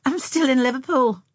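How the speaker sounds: high, loud playful reply; laughingly. A narrator's reading. Girl joking with Tom about being back, laughingly. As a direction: tease him, pitched well up. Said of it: "she laughed".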